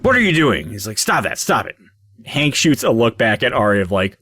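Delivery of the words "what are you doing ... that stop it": indignant scolding. Acted. Clerk catches man going through the book, indignant scolding. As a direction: catch someone meddling and object.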